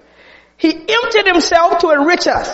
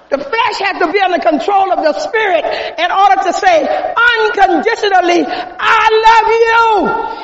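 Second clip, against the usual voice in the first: preaching to a climax; 3 semitones higher than usual. Acted. Preacher urging selfless love on the congregation, rising to a cry. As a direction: build up and ring out the final words.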